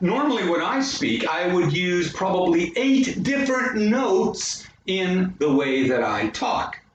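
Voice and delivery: wide pitch moves on "eight different notes"; dramatic, many-note inflection. Shown as a demonstration. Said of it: "I am a little dramatic".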